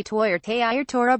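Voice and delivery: "Toy or Tei or Torah" with oy and ey vowels, stress up front; Ashkenazi pronunciation. Shown as a demonstration.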